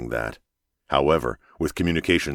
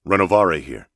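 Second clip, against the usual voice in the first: raised voice into the radio; louder radio call; 3 semitones higher, 5 dB louder than usual. Acted. Captain calling base louder over the radio. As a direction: push it louder to reach base. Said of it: "louder this time".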